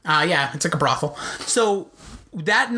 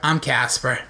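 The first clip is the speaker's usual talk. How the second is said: put-on lower, deflated "I'm Casper" like a beaten kid; defeated voice; 5 semitones lower, slower than usual. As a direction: sigh it out, completely defeated. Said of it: "in a depleted voice".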